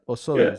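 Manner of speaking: Osoyoos said with a posh flourish; fancy pronunciation. Shown as a demonstration. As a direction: say Osoyoos like a wine snob. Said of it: "Sounds so fancy".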